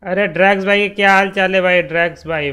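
excited greeting. Real, not acted. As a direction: greet him with big cheer. Greeting a friend joining.

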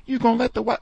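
high, mocking scoff; sounding like Neely. White boss scoffing at the beaten worker, high mocking voice. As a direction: scoff at the tough guy, pitched high. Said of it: "he sound like Neely".

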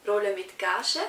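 laughing through the words; real amused laugh mid-phrase. Real, not acted. Actress laughs recalling her first paid role, laughing.

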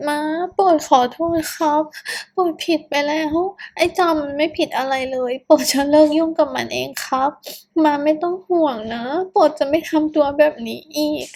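tearful pleading. Acted. Boyfriend begs his partner's mother through tears, crying plea. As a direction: beg forgiveness while crying. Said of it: "คุณเขาร้องไห้โฮ".

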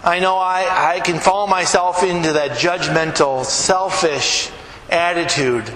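earnest spoken prayer. Acted. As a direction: pray humbly for the congregation. Pastor leads closing prayer.

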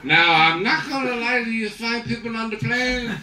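lightly voiced tipsy pilot; drunk pilot. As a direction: confess over the PA cheerfully. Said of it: "the pilot comes on the intercom".

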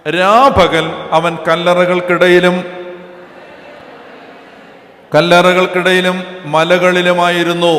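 slow, loud declaiming of the verse; preacher reading scripture aloud to the congregation. Real, not acted. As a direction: proclaim the verse to the whole hall. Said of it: "അഞ്ചാമത്തെ വാക്യം വായിച്ച്".

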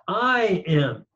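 "I" lengthened and set apart; emphatic I. Shown as a demonstration. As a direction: put the weight on "I", then a lighter "am". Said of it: "this I is emphatic".

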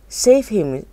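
a lightly acted panicked scream. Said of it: "screamed Missus Gloop".

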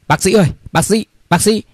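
high-pitched urgent calling; hurried patient. A narrator's reading. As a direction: call for the doctor as if rushing in. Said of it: "có một bệnh nhân hối hả chạy vào".

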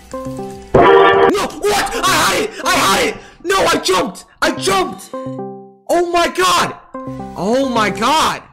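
raging gamer. Real, not acted. Loses the level.

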